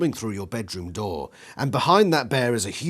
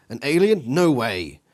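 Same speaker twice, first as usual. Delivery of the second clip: surprised; 3 semitones higher, 5 dB louder than usual. Acted. Child disbelieving father's news.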